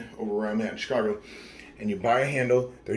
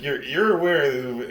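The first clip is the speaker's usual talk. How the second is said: surprised question; 5 semitones higher, 7 dB louder than usual. Retold or imitated. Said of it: "And I'm like".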